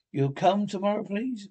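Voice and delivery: hint of a child begging; pleading child.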